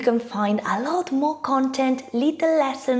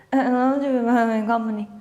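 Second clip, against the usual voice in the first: slow mumbled word; much slower than usual. Acted. Interviewer mumbling to a job candidate. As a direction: drag out a mumbled company.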